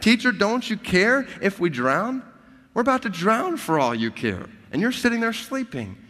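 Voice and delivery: high, loud frantic plea; panicked disciples. Acted. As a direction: cry out at the sleeping teacher in panic. Preacher voices panicked disciples.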